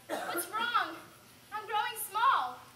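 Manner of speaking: mildly alarmed cry; a touch of panic. Acted. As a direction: call out in bewildered dismay. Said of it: "cries out".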